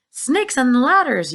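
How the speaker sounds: high, loud, slow exclamation; yell. A narrator's reading. Fire chief yelling in alarm. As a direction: bellow it in shock. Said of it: "yelled the head of the fire department".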